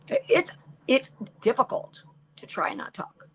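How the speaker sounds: breathy hushed lament; whispered complaint. Retold or imitated. Telling husband how hard it is, in a whisper. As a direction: whisper it like a confession. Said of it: "They're like".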